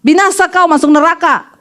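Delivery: a touch of fire in a retold damnation; mock curse. Pastor tells husband off by phone, mock cursing.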